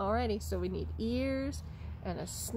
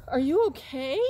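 puppet voice; 5 semitones higher, 8 dB louder than usual. Pretend. Second puppet asks.

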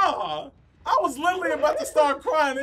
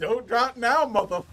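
Samuel Jackson impression; 3 semitones lower than usual. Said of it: "You really sound like Samuel Jackson then".

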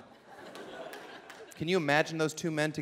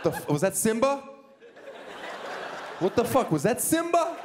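mock shock; 5 semitones higher than usual. Mock shocked at imagined baby.

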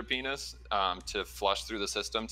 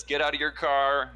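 angry order, moderately raised; half-raised imitation of a furious shout; mock yell; 5 semitones higher, 5 dB louder than usual. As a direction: retell an angry driver's yell, higher and louder. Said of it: "starts yelling at".

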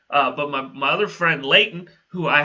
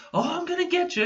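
mock threat; 13 semitones higher, 3 dB quieter, faster than usual. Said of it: "he's just like".

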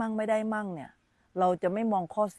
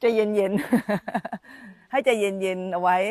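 amused echo; 6 dB louder, much slower than usual. Real, not acted. Echoing child's answer, amused.

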